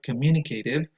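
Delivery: communicative with a full CAY vowel, MU stressed; alternative pronunciation. Shown as a demonstration. Reporting a variant heard, communicative with a long CAY. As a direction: say communicative as com-MU-ni-cay-tive. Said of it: "stress goes on the second syllable".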